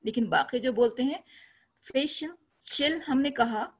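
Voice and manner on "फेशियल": फेशियल with fe raised and stretched; stress on fe. Shown as a demonstration. Teacher demonstrating stress on the first syllable of फेशियल. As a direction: open the mouth wide on fe in फेशियल. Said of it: "फे बोला फेशियल".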